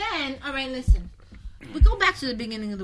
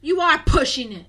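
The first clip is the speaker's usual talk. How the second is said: emphatic, raised-voice "are"; stress on are; 3 semitones higher, 9 dB louder than usual. Real, not acted. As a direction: throw it back louder, punching "are". Echoes co-host with emphatic correction.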